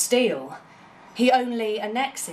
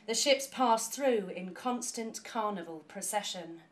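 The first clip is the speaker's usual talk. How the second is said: fading away; 9 dB quieter than usual. Acted. Closing the canal poem to the audience, softer and slowing down. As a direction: let the last lines sink to almost nothing.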